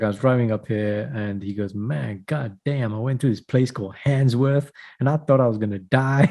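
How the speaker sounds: put-on light American Chris Rock accent, mostly in his own voice. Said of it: "just imagine I'm doing Chris Rock accent".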